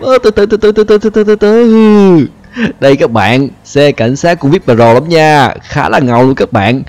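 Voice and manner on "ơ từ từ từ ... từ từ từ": startled high "slow down". Real, not acted. Car lurching out of control.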